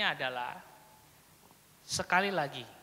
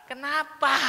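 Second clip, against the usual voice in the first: demanding why; 6 semitones higher, 4 dB louder than usual. Shown as a demonstration. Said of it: "Jangan lagi buat pertanyaan yang sama".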